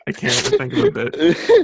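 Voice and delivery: cracking up mid-sentence; laughing. Real, not acted. Laughing at own blank.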